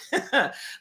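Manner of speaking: short high laugh; brief chuckle after a punchline. Real, not acted. Laughs after repeating the catchphrase.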